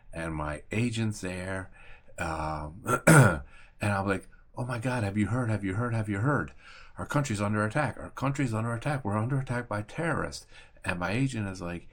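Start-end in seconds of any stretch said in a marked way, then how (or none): 4.6-10.5 slightly higher, repetitive panicked rush; retold panic. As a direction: blurt the alarming news, repeating it urgently. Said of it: "freaking out".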